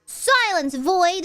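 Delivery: high, loud mock command; shouting. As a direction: order silence, hammed-up. Hushing a chatter.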